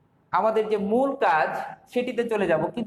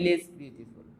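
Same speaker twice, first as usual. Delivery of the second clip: 1 slow model phrase; 4 semitones lower, 5 dB quieter, much slower than usual. Shown as a demonstration. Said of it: "সবচাইতে কম হয়".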